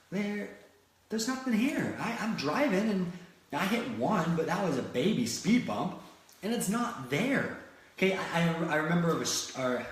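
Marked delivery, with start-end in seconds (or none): 0.1-7.6 mock dismissive driver. Driver scoffing at imagined obstacles.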